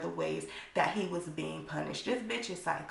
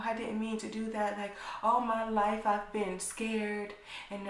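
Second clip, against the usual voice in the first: lightly voiced tearful plea, a bit higher; mock crying apology; 3 semitones higher than usual. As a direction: plead like a man faking tears, understated. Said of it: "he's up here crying".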